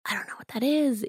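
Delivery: a hint of a baffled dad who doesn't get it; imitating confused dad. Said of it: "And he was like".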